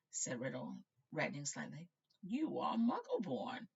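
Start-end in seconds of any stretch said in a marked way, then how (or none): 2.2-3.7 put-on higher slow frail old wizard; frail headmaster stating it. Dippet questioning Riddle, frail and high.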